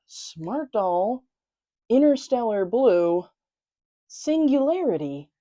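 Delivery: slow title reveal, a pause between parts; deliberately slow. Real, not acted. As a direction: announce the long title piece by piece. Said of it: "Had to say it slowly".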